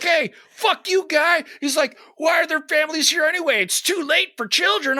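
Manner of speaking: high-pitched hammed-up comeback; mock indignant guy. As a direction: imitate an affronted guy arguing back. Acted quote of guy in quarrel.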